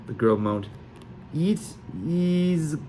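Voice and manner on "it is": hammed-up Sully accent, high then loud on good; outrageous Sully accent. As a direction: overdo a fake Sully accent. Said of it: "the most outrageously Sully accent".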